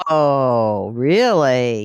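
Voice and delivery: long drawn-out amazed whoa; astonished, swooping reaction. Real, not acted. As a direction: stretch it out in real astonishment. Amazed by caller's retirement figure.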